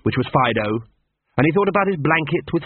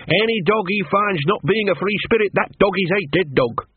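higher, a touch of fearful fascination; fearful awe; 7 semitones higher than usual. A narrator's reading. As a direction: tell it half scared, half in awe. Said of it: "a mixture of fear and fascination".

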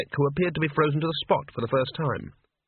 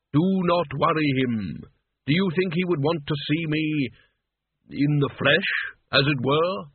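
Death. Acted. Narrator voices Death.

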